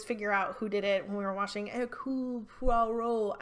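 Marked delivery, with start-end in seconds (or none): 1.7-3.4 badly faked French accent on the name; amateur French accent, apologetically bad; atrocious French accent. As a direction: attempt the detective's name with a clumsy French accent. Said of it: "forgive my atrocious accent".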